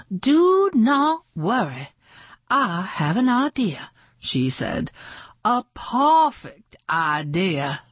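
a hint of a grand film star, comforting; lightly voiced reassuring star. Miss Garbark reassures Rufus, lightly voiced as a grand star. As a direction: soothe him like a diva with a plan.

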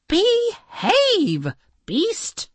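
very high shouted command; calling out. A narrator's reading. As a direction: call out across the water. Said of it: "She cupped her hands around her mouth".

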